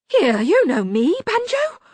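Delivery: high, loud, desperate plea; strained croak. A narrator's reading. Locksmith lifted up by Banjo, high pleading croak. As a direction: croak it out while struggling in midair. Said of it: "the locksmith croaked".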